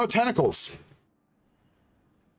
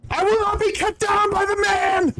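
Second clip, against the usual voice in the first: mock defiance; 12 semitones higher than usual. Mock defiance after being censored.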